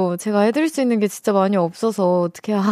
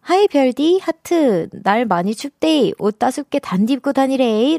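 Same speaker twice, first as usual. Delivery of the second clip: Gyeongsang dialect; 4 semitones higher than usual. Retold or imitated. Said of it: "단풍 하트님께서".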